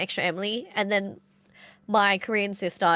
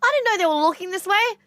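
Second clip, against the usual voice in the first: high, dismayed imitation; mock a cousin's pained protest, pitched way up; reproachful cousin; 11 semitones higher, 4 dB louder than usual. Cousin asking why nobody told her, high and aghast. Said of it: "And she goes".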